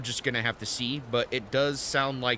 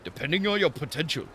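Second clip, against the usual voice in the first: lightly hammed mock-Japanese old master; Temu Japanese accent. Old master offering an apprenticeship, bad Japanese accent. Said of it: "doing some Temu Japanese accent".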